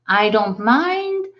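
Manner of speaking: slow I don't mind with a shrug; mild indifference; indifferent shrug. Shown as a demonstration. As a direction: let I don't mind drift out, not caring. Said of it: "ça veut dire, oh, ça m'est égal".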